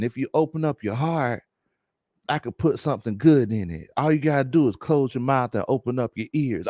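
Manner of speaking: measured, preachy cousin dropping knowledge; Big Low Conspiracy. Acted. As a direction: play the self-serious wise man, unhurried. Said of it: "do my best Big Low Conspiracy im".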